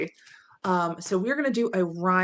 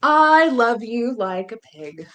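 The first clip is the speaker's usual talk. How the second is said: slow, louder, playful first line of the book; reading to children; 4 semitones higher, 9 dB louder, slower than usual. A narrator's reading. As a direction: announce the refrain with glee for the kids. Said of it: "fun nonsense book".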